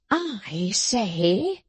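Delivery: drawn-out indignant emphasis; mildly heated contradiction; violent retort. A narrator's reading. Sampson contradicting his sister about the thief, heatedly. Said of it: "returned Sampson violently".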